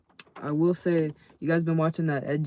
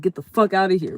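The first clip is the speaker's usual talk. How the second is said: yell; 3 semitones higher, 9 dB louder than usual. Retold or imitated. Gunman yelling from the window.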